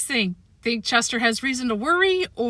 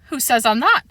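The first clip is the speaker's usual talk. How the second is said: husky voice; 3 semitones higher, 3 dB louder than usual. Acted. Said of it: "in an unfamiliar husky voice".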